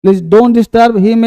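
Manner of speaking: very slow, every word stretched; slow demo. Shown as a demonstration. Teacher spelling out the sentence for students, very slowly. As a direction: read it slowly so the class can follow. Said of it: "ठीक है बच्चे".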